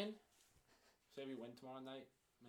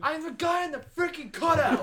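loud laughing shout; 10 semitones higher, 13 dB louder than usual. Real, not acted. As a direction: blurt it out laughing. Laughing exclaim.

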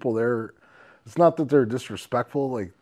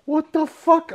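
higher, louder outraged rant; mock outraged rant; 7 semitones higher, 9 dB louder than usual. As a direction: rant it in disbelief. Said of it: "And then he's like".

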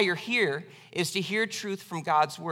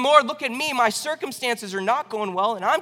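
higher, louder plea to God; Habakkuk crying out, raised and pleading; 4 semitones higher, 3 dB louder than usual. Acted. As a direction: call out to the Lord for attention.

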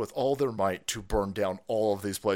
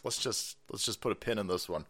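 subdued mock quote; 5 semitones lower, 8 dB quieter than usual. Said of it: "I think they're like".

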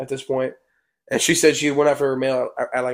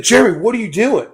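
high, swooping call of a baffled friend; imitated puzzled call; 7 semitones higher than usual. Friend pulls up in his truck, imitated puzzled call.

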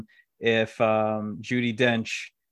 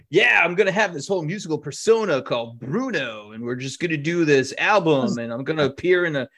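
mock egomaniac; 2 semitones higher, 4 dB louder than usual. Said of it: "he was an egomaniac who was just like".

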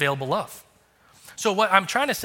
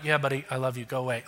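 lower, softer sleepy brush-off; groggy dismissive dad; 4 semitones lower, 4 dB quieter, faster than usual. Retold or imitated. Tired dad brushing off his early son, low groggy. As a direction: mumble at the kid half asleep. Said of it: "I'm like".

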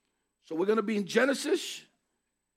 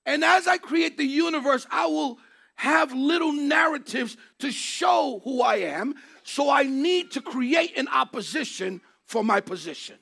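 voice of God; 3 semitones higher than usual. Acted. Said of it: "It is".

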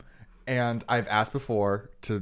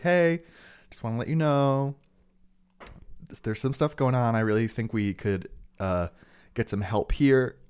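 begging; 4 semitones higher, 5 dB louder than usual. Retold or imitated. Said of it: "begging, crying".

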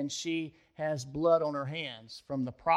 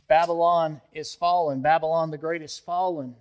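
declared louder, like a verdict; voice of judgment; 4 dB louder than usual. Retold or imitated. The condemning voice announces Babylon's fall, louder and stern. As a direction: pronounce the city's fall with authority. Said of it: "a voice of condemnation and judgment".

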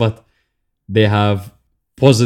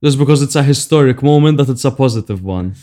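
self-mocking; 5 semitones higher, 5 dB louder than usual. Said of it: "And I'm like".

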